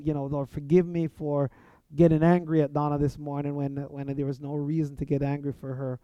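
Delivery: plain earnest prayer, spoken quickly; a sample prayer of confession and thanks; quick demo prayer. Shown as a demonstration. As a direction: rattle off a short honest prayer. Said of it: "it can be just like this".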